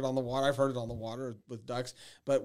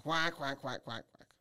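quacking call; 3 dB quieter, slower than usual. Shown as a demonstration. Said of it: "one of the calls they use the most".

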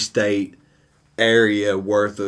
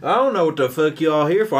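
higher-pitched, play-acted Southern tough talk; mock Southern brawler; 5 semitones higher than usual. Picking a fake fight with the others, mock Southern brawler. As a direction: put on a hammed-up redneck challenge. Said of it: "sounds just like a fight around here".

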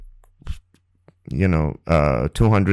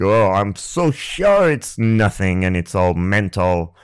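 dismissive; 3 semitones lower, slower than usual. Retold or imitated. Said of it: "just completely knowing".

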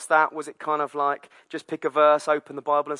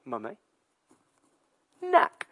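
higher on knack, defiant little voice; defiant toddler; 6 semitones higher, slower than usual. Retold or imitated. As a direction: challenge mum with one word. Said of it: "looks at Danny and goes".

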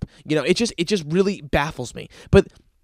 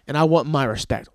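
smug LeBron impression; 4 semitones lower than usual. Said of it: "the fact that he's like".

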